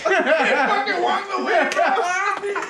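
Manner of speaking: high, loud words bursting through laughter; stretched out, cracking up mid-story; laughing hard. Real, not acted. Barber telling friend how the client left, laughing hard.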